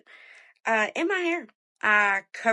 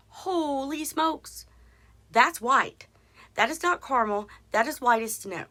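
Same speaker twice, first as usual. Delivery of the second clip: shocked; 4 semitones higher than usual. Retold or imitated. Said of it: "and I'm like".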